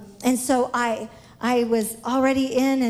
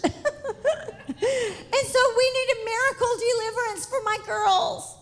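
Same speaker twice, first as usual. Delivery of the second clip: emotional; 9 semitones higher, slower than usual. Real, not acted. Emotional plea for deliverance.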